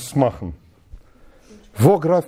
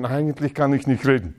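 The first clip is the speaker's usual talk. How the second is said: laughing Moses excuse; 4 semitones lower, 3 dB quieter, faster than usual. Acted.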